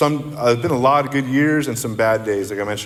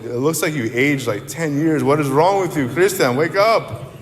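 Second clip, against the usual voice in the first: higher, worried mom; a lightly voiced mom pleading with her son; mother scolding; 3 semitones higher than usual. Mom at the police station, higher worried scolding. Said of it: "my mom said".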